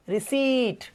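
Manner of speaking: रिसीट ending in a long "eet", P left out; long ee, silent P. Shown as a demonstration. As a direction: hold the ee in रिसीट. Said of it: "बड़ी की मात्रा".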